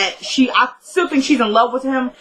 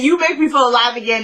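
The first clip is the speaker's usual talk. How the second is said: quick mock recital of "you make me feel alive again"; mocking a cliché; 3 semitones higher, faster than usual. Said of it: "is just such a cliche line".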